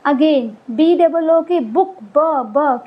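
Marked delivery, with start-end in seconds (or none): 2.0-2.8 ब said twice, isolated; sounding out ब. Shown as a demonstration. Teacher sounding out ब for the children. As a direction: sound out the letter ब. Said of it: "किसकी sound आई?".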